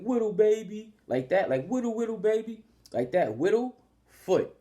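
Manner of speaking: put-on high singsong Whittle baby; high playful name call. Shown as a demonstration. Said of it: "that's how you pronounce it".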